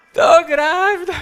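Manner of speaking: high, loud, slow mock announcement; mock dramatic reveal. Pastor acting out his wife announcing the pregnancy, hammed-up. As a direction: stretch it like a big theatrical reveal. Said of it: "sabe o que ela me fala".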